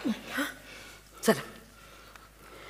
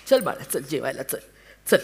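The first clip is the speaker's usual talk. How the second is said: coaxing; 4 semitones lower than usual. Acted. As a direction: gently coax the boy to come and eat. Mother coaxes child to eat. (लाडिकपणे, हळुवार)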